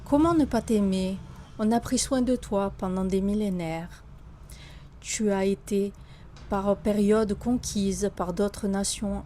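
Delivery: solemn, heartfelt declamation with long pauses; poem recitation. Acted. Author reciting a love poem to France, solemn declamation. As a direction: recite it as an ode, phrase by measured phrase.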